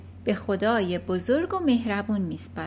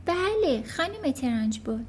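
put-on higher, polite small-girl voice; little girl; 5 semitones higher than usual. Matilda answering the headmistress, polite and small.

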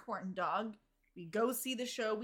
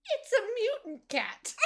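mock shout; 11 semitones higher, 4 dB louder than usual. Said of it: "and go".

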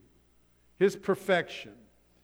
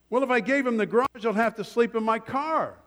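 higher-pitched, mildly worried bargaining; pitched up in mild dismay; dismayed buyer; 5 semitones higher, faster than usual. Acted. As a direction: act out a man protesting his losses. Man protesting losses, acted dialogue.

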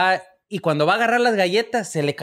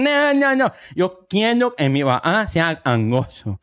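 mock nasal kid; slower than usual. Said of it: "niño gangoso".

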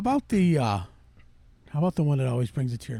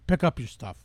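louder, hammed-up angry scolding; scolding Nicky Geronimo; 3 semitones higher, 6 dB louder than usual. Host playing the ad actor yelling at litterers, hammed-up and loud. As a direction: chew out the litterbug, mock fury. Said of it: "Nicky Geronimo as an American Indian".

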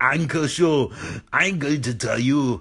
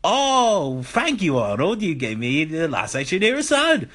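happy. Acted. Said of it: "he goes happy".

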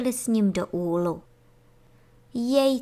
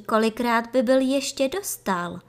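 ordinary delivery, nothing marked

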